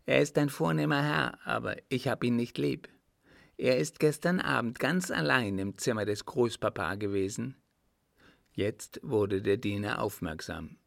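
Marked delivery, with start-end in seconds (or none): 0.1-7.6 put-on candid child, pitched a little higher; lightly voiced little boy. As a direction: give a hint of an earnest small boy. Narrator voices little Richard.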